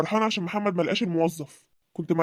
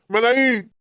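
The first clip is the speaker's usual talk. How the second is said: ملايين said louder and proudly, falling; boastful exclaim; 3 semitones higher, 5 dB louder, slower than usual. Acted. Boasting about land value.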